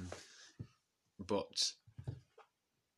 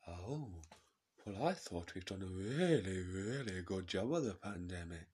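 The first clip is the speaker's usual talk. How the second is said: Jacob Rees-Mogg. Acted. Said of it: "And Rees-Mogg says".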